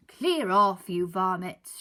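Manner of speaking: loud angry shout at the birds. Acted. Mister Grinling shooing seagulls, loud shout. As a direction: yell them away. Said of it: "shouted Mister Grinling".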